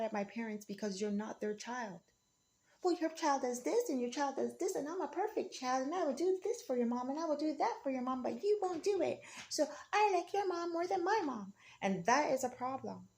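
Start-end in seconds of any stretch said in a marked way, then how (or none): 2.8-11.5 higher, sing-song mimicry of the critics; mock the bragging busybody, higher; a higher, snide imitation of the gossips; mocking critics' voice.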